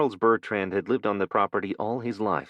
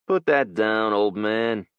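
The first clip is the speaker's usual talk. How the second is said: put-on menacing young man; 3 semitones higher, 5 dB louder, slower than usual. Young thug threatens.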